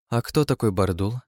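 ordinary delivery

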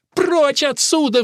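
high, loud, drawn-out order; enraged woman's outburst; furious roar. A narrator's reading. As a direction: roar him out of the house. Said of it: "взревела мама".

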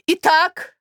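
high, slow, loud mock-tragic mother; high loud theatrical mother; exclaimed. A narrator's reading. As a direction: throw the reproach out theatrically. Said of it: "воскликнула Марья Александровна".

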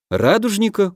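резкий высокий переспрос; вскинуться от удивления; удивлённо. Acted. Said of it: "удивился Дима". (удивлённо, высоким голосом)

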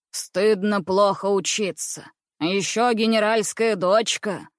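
slow, stern rebuke; stern priest. Acted. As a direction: scold slowly like a strict priest. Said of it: "сердито произнёс батюшка".

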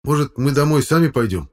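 put-on high-pitched, loud glum boy; sullen suggestion. A narrator's reading. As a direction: offer it grudgingly. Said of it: "угрюмо предложил второй парень".

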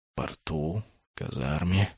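soft, low drawn-out musing; thoughtful drawl. A narrator's reading. Masaona weighing the boys' alibis, soft thoughtful drawl. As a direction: mull the words over quietly. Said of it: "задумчиво протянул Масаона".

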